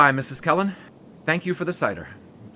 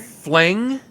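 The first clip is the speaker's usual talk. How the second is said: "Fling?" shouted higher and louder, rising; 10 semitones higher, 7 dB louder than usual. Acted. Ex-lover repeating fling in loud, high disbelief. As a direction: yell it back, even more wounded. Repeats the word, more outraged.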